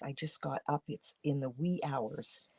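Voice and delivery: groggy just-woke-up voice; sleepy morning voice, barely awake. Real, not acted. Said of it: "Pardon me for my morning voice".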